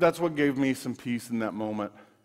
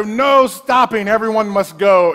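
firm command; 5 semitones higher, 8 dB louder than usual. Retold or imitated. Dad announcing rule to kids.

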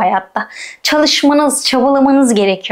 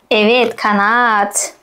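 ordinary talk

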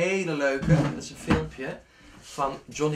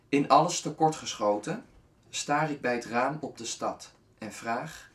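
measured verse reading; poem recitation. Acted. Recites closing lines of poem.

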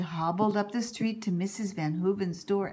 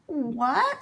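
crying out; 4 semitones higher, 4 dB louder than usual. Acted. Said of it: "Sylvia Jean cried".

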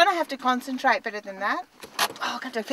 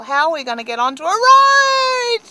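exasperated outburst; 7 semitones higher, 10 dB louder than usual. Real, not acted. Exasperated parent teaching driving.

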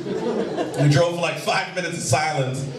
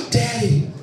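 put-on higher-pitched child, aghast; shocked daughter; 3 semitones higher, 3 dB louder, slower than usual. Daughter in the back seat after the crash, shocked question. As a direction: act out a startled kid asking Dad. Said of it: "My daughter's in the back seat".

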